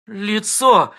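sobbed. Acted. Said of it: "всхлипнула Кластер".

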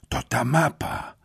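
high-pitched excited mumble. A narrator's reading. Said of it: "wymamrotał podniecony Mateusz".

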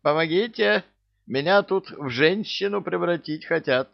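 high-pitched, hammed-up cry for help; panicked plea. A narrator's reading. Grabbed private begs his commander for help, high panicked plea. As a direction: plead for rescue in a high voice.

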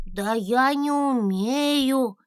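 about to cry, helpless; near tears. A narrator's reading. Dragon almost in tears, unable to fly. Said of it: "едва не плакал".

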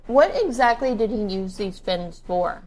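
talking through a mouthful of food; words mushed by chewing; mouth full. Real, not acted. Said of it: "I'm sorry, I'm eating".

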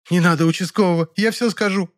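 high, frightened maid. Acted. Maid begs him not to call the police, frightened and high. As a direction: beg in a high scared voice.

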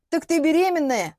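stunned realisation; astonished question. Acted. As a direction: realise it with a jolt. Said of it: "ахнула женщина".

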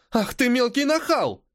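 teacher bristling with outrage; outraged. A narrator's reading. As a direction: scold the cheeky brat. Outraged teacher at cheeky pupil.

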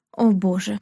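ordinary delivery, nothing marked

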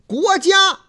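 国家 said high and loud in standard Mandarin; standard pronunciation. Shown as a demonstration. Host demonstrates 国家 as correct standard pronunciation. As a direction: announce 国家 clearly in standard tones. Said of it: "这是正音".

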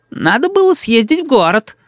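put-on preachy boy. A narrator's reading. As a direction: moralise like a little know-it-all. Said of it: "нравоучительно заметил мой сын". (нравоучительно, по-детски)

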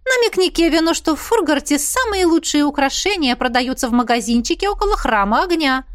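high, excited chatty mother; mother gushing. Acted. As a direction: gush like a thrilled mother. Mother hinting about jewellery. (восторженная мама, высокий голос)

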